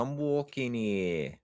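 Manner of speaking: badly faked American, stretched slowly; hammed-up American drifting West Country; attempted American accent. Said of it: "was that you trying to do an American accent?".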